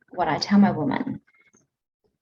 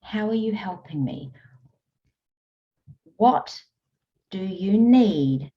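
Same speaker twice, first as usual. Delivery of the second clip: gentle curious questions. Shown as a demonstration. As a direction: ask yourself gently, almost whispering. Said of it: "how questions".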